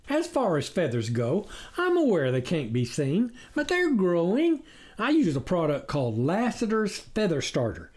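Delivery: a sly predator playing innocent; sly stranger. Coyote stranger boasting to the farmers, sly voice.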